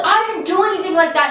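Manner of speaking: defensive boyfriend protest, retold; fighting back. Boyfriend denies texting the friend, acted indignant protest. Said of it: "they start fighting".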